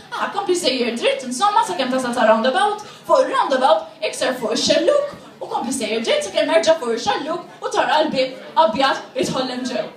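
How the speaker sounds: blunt directions in Maltese; imitated brusque Maltese local; rough Maltese speaker. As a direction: reel off Maltese directions without politeness. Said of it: "being a little bit savage".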